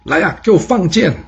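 high-pitched indignant outburst; narrated enemy's angry command; angry scolding. A narrator's reading. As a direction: curse in anger, voice jumping up. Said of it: "窦月娇生气地大骂说".

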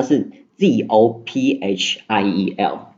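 把Z O P H I E L一个字母一个字母慢慢念出; 放慢速度，清楚拼出每个字母; 逐个字母拼读. Shown as a demonstration. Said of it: "怎么拼音呢？". (慢速逐字母拼读Zophiel)

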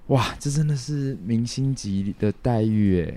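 slow, starry-eyed wow; dreamy amazement. Retold or imitated. Guest recalls the backstage canteen, slow and dreamy. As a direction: savor it like a star being pampered. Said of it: "我就觉得".

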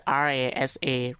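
letters R A S A said one by one; spelling it out. Shown as a demonstration. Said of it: "怎么拼呢". (一个字母一个字母拼出来)

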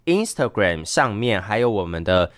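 talking through burps; burping the words. Real, not acted. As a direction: burps breaking into the speech. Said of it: "我在打嗝。".

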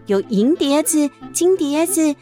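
plain reading voice

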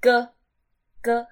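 "G" as a short, quick "ge", not the letter name. Shown as a demonstration. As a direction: cut "G" short, one brief syllable. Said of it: "好像短的". (“G”念成短音“哥”)

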